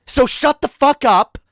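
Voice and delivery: angry shout. Real, not acted. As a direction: shout them down. Angry rant at anti-vaxxers.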